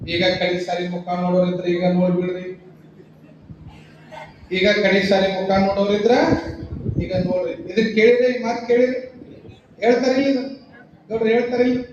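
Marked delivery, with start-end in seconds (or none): 0.1-2.6 low, monotone imitation of a gravedigger; gravedigger's announcement. Man in the grave calls to mourners above, low monotone. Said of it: "ಅವ್ ಹೇಳ್ತಾನೆ ಮ್ಯಾಗಿನವ್ರಿಗೆ ಏನಂತ". 4.5-7.5 lightly voiced gravedigger, low and level; gravedigger's announcement. Gravedigger offers mourners a last look, in a low intoned call. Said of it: "ಅವ್ ಹೇಳ್ತಾನೆ ಮ್ಯಾಗಿನವ್ರಿಗೆ ಏನಂತ".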